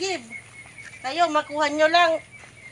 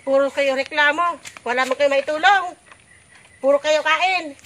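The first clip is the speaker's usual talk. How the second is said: kvetching. Acted. Mother rants about complaining kids.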